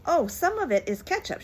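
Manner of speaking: high, bright, innocent reply; cheerful explanation. Acted. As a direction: chirp it out innocently.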